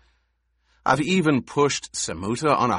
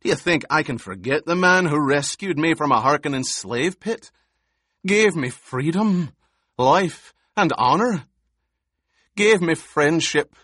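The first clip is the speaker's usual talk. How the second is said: higher, louder, fast and impassioned; vengeful fury; 5 semitones higher, 5 dB louder than usual. A narrator's reading. Gurney raging at Paul over the duke's betrayer, furious. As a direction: pour out his grief as rage. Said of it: "Gurney said".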